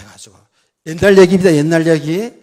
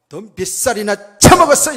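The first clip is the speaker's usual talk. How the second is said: loud, raised-pitch mock challenge; retold angry confrontation; 4 semitones higher, 10 dB louder than usual. Preacher grabbing a rude driver's collar, retold angry outburst. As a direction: act out losing your temper at someone younger. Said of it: "저 열받으면요, 무섭습니다".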